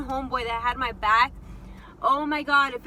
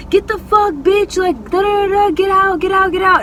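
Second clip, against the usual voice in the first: high, insistent mock commands; imitated angry ordering; 7 semitones higher, 13 dB louder than usual. Homeboy pushing her out of the car, imitated angry orders. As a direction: rattle off orders as if shoving someone out.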